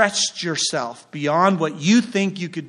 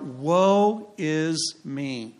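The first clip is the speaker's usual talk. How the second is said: slow, understated cry of woe; measured, mock-anguished quotation of a prophet; mild retold lament; much slower than usual. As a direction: draw out the prophet's lament without raising the voice. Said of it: "Isaiah cries out".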